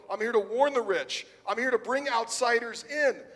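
preacher voicing Jesus announcing his mission, loud and bold; bold declaration. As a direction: proclaim each line like a champion entering the ring. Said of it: "He's saying".

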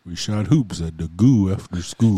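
"goo" and "school" rhymed on oo with no L; dropped L. Shown as a demonstration. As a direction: Crow accent, "school" said as "skoo". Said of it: "never had the letter L".

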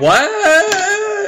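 very high squeaked what; shrill startled squeak; squeaky surprise. Pretend. Clip reaction.

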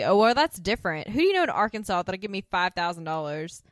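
a hint of sneering disbelief; tossed-off sarcastic retort. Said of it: "Suzanne says very sarcastically".

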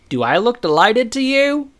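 high, loud, badly done character voice; terrible Chet. Podcaster quoting an indignant Chet, terrible high-pitched impression. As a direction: pitch climbing in a hammed-up impression. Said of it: "That was a terrible Chet".

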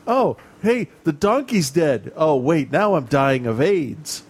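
breezy mock Tom Hanks, dying casually; Tom Hanks impression. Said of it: "That's like Tom Hanks".

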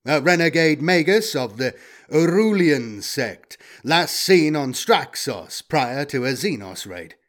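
deliberate robotic data readout; war robot. Acted. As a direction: recite records like a machine.

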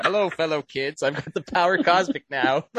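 lightly voiced Buscemi boasting with a surfboard; Steve Buscemi impression. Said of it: "Steve Buscemi style".

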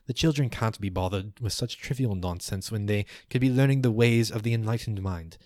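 lightly voiced lofty scholar; a hint of a pompous elder; arguing elder. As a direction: chide a brother with mild exasperation. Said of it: "One next to him goes".

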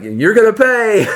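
high, loud mock threat; imitated angry holler. Drenched stranger to boys peeling out in a car, imitated holler. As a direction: holler it like an enraged guy giving chase. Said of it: "that guy was hollering".

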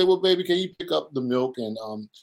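a hint of a busy wife listing chores; wife handing her husband a list of errands, lightly voiced; imitating the wife. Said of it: "She's gonna say".

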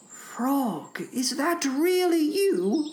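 soft, high questioning voice; hushed storybook toad; waking Toad. A narrator's reading. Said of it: "said Toad".

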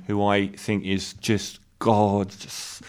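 slow, lightly swooning aside; swooning gush. Real, not acted. Reviewer admiring the actress, a slow swooning gush. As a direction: let the compliment melt out slowly. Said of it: "I don't know why I said it like that".

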